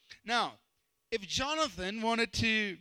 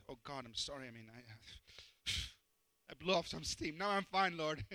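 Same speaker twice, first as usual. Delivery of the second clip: sheepish quiet prayer; 7 semitones lower, 6 dB quieter than usual. Retold or imitated. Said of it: "So quickly".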